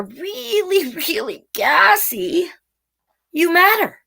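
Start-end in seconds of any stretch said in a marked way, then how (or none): 0.0-2.5 slow whispered gassy; cheeky whisper. Acted. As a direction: whisper it like a secret. Whispered joke.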